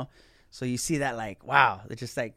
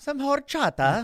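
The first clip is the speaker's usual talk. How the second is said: hammy stage actor; 12 semitones higher, slower than usual. Pretend. Joins the mock Renaissance bit.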